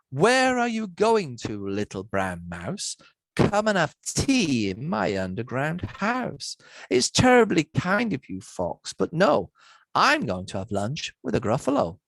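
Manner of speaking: lilting read-aloud with a bouncy rhythm; story reading. Acted. Lecturer reads the Gruffalo opening aloud, rhythmic storytelling. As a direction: read it like a bedtime story, leaning on the beat.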